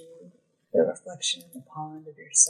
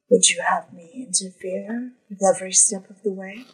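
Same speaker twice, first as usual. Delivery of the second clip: whispered, calm question from the queen; whispered reply; 3 semitones higher, faster than usual. Acted. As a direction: breathe it to him, gently reproachful. Fairy queen answers her son.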